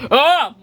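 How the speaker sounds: high, loud "ah"; acted gasp of delight. Daddy Pig opens his package, loud acted exclamation. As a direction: exclaim loudly at a surprise.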